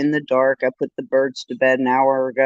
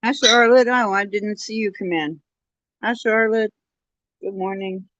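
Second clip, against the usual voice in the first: high bird-talk greeting; 6 semitones higher than usual. Real, not acted.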